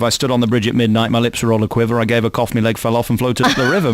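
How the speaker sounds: jokey sing-song rhyme, low-key; comic verse recital. Retold or imitated. Host offering a silly rhyme instead, mock recital. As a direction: rattle off a daft rhyme deadpan. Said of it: "I was thinking more along the lines of".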